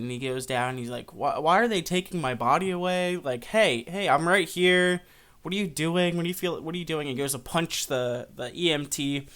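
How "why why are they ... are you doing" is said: raised pitch, acted confusion and alarm; mildly frantic retold pleading; agitated protest. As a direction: try to get their attention, indignant. Ghost protests body taken away.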